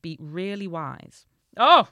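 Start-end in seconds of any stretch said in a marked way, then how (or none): 1.6-1.9 loud, raised storybook exclamation; father's voice. A narrator's reading. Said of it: "said the father".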